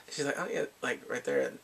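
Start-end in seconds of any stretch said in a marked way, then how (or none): 0.4-0.7 higher, quick little denial; acted quick denial. She answers the father's dating question, quick denial. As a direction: deny it lightly and fast.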